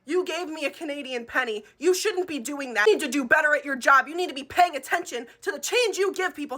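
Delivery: worked-up customer complaint, acted out; passionate scolding. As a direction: imitate an indignant customer lecturing a cashier. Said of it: "She was so passionate about this penny".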